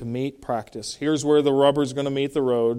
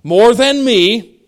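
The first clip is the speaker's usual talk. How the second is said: slow, loud, high "more than me"; emphasized ME; 5 semitones higher, 7 dB louder, much slower than usual. Shown as a demonstration. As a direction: set the phrase apart and hit "me". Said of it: "there he highlights the relationship".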